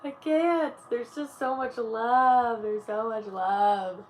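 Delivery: overflowing joy. Real, not acted. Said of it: "I'm just smiling so much today".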